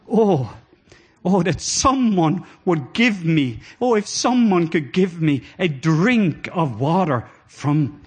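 slow yearning plea; longing plea. Acted. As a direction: ache through each word slowly. David's longing quoted slowly.

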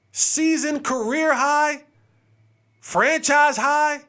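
high, slow broadcast build-up; dramatic announcer. Acted. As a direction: drag out each phrase like a headline. Hyped opener vs quoted Giannis.

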